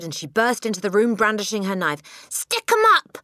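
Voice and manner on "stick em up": high, loud challenge; yell. Acted. Matilda bursting in with her knife, yell. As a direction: yell it like an armed raid. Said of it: "she yelled".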